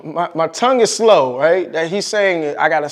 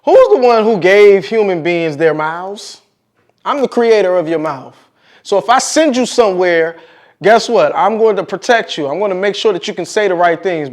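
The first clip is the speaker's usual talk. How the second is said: voice of God; 4 dB louder than usual. Acted. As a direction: proclaim it like the Lord himself. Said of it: "Lord said to him".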